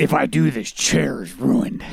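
lightly put-on Batman, slowing at the end; a hint of a caped-hero voice. Reader voices Bruce worrying about the chair, light Batman voice. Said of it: "is that your Batman voice?".

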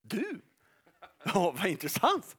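slow, sly, low-key mocking voice; a sly devil insinuating in a soft voice; accusing devil's voice. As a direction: purr like a sneering accuser. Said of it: "kommer rösten så här ungefär".

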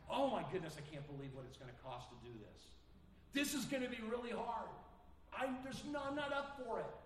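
mock whining complaint. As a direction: play the reluctant believer overwhelmed by the cost. Mocking people who exaggerate sacrifice.

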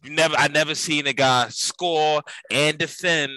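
deadpan Italian-American tough-guy praise; Italian-American wiseguy. Acted. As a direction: gush then curse in an Italian-American accent. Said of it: "No change in tone".

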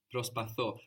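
προσπαθώ with the accent on the final ώ; stress on the ending. Shown as a demonstration. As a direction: stress the last syllable of προσπαθώ. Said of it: "the accent is on the ending".

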